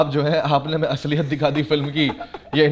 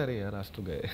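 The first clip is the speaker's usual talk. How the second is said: mock despair; 6 semitones lower, 11 dB quieter than usual. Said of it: "तो हम बोलते थे".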